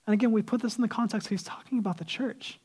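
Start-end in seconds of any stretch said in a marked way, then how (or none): 1.3-2.6 whisper. Acted. Aside dropped low.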